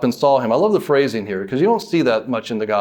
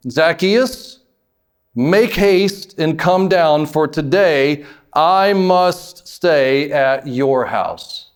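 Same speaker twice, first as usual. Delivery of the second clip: slow, deliberate summons with long stretched words; solemn command; much slower than usual. Acted. Jesus calling Zacchaeus down from the tree, slow and commanding. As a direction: call the name, then command with measured weight.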